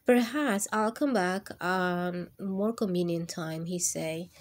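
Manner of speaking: lively picture-book reading voice; reading to children. Acted. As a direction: read it warmly to a class of kids. Reads picture book aloud.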